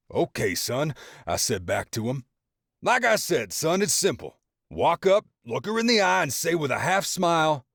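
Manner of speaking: high fatherly advice; a hint of the confident father; lightly voiced proud dad. A narrator's reading. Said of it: "being the great father".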